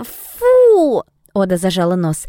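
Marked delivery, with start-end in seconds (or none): 0.0-1.0 disgusted. Acted. Oda holds nose at stink.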